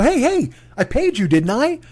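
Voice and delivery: a customer snapping back at a clerk over the price; indignant retort. Retold or imitated. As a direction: push back hard at the clerk. Arguing with the clerk.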